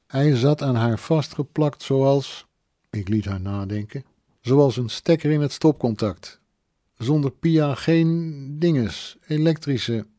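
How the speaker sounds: tipsy woman searching for words. Acted. Drunk woman fumbling for a comparison about Pia. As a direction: grope for the words, halting.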